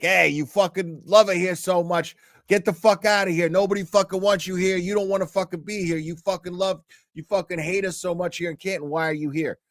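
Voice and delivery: mock confrontation. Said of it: "got in Turtle Boy's face and was like".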